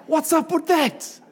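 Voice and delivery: laughing question, pitched well up. Real, not acted. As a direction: laugh it out in disbelief. Laughing at church fakeness.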